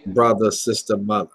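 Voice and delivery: attempted Northern accent. Shown as a demonstration. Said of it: "I lost the accent on that one".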